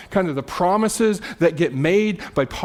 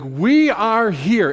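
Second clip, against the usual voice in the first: slow, firmly stressed declaration; bold, courageous; 4 semitones higher, 4 dB louder, much slower than usual. Acted. Peter declaring the disciples' loyalty, bold and slow. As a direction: declare it word by word, a touch bold. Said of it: "This is a bold statement".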